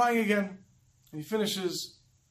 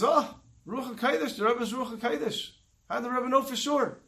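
mildly acted awe, lifted in pitch; retold amazement; 4 semitones higher than usual. Hasidim marvel at their Rebbe, lightly acted amazement. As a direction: voice the followers' wonder with a higher lilt.

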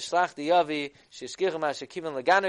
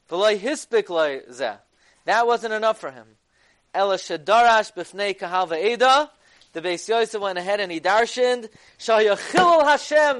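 heated rise; 5 semitones higher, 8 dB louder than usual. Real, not acted. Lecturer heated over Beis Yosef's ruling.

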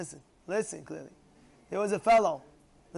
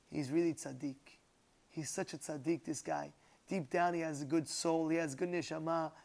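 tender sincerity; 5 dB quieter than usual. Retold or imitated. Rabbi recalls kind thoughts about the man, gently. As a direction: think kindly of him, quietly.

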